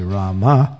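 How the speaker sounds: Rama with an open "ah", rising at the end; Rama for Ram. Shown as a demonstration. Showing the Supreme Personality's name, Rama with open "ah". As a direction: say Rama clearly with a lifted "ah". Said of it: "then it's Ram".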